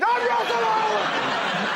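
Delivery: slow, high self-announcement; proud shout. Pretend. Comic announcing his own name while being examined.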